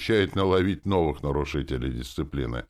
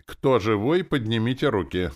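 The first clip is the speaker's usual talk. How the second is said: raised, higher commanding voice; loud command; 6 semitones higher, 4 dB louder than usual. A narrator's reading. Rex orders the fighters to raise hands, loud command. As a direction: call out a loud order to the troops. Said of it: "громко скомандовал Рекс".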